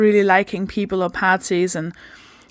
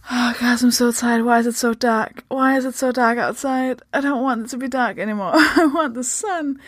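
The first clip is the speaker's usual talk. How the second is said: mock whiny complaint; 3 semitones higher than usual. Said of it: "making this sound like a".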